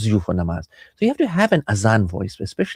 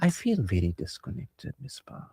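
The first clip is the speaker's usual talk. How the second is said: slow, much softer admission; careful nice tone; 10 dB quieter than usual. Shown as a demonstration. Spouse confessing disconnection to partner, soft careful tone. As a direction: say it softly and slowly, fading away. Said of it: "Tone and words".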